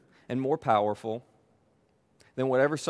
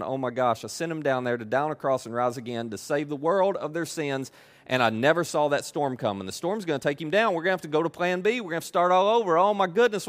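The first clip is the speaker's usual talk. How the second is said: mock panic. Mock panicking God in heaven.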